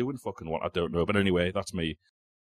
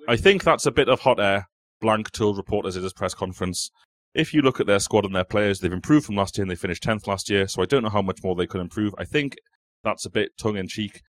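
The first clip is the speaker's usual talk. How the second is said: a little louder, more into the mic; read out louder. Shown as a demonstration. Quizmaster rereads the quote louder for the mic. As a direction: project the quote toward the microphone. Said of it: "I'll do this one again".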